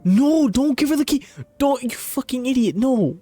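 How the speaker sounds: high, loud protest at the screen; panicked yelling. Real, not acted. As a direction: yell in frantic high-pitched disbelief. Streamer yells at game character's choice.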